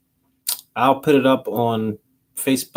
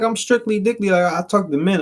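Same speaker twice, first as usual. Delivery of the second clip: lightly imitated Southern woman, higher pitch; mock Southern declaration, pitched up; Southern accent; 6 semitones higher than usual. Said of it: "she had that Southern accent".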